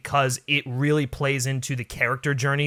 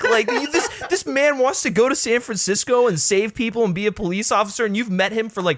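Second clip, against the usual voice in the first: laughing rant; 6 semitones higher than usual. Retold or imitated. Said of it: "I'm like".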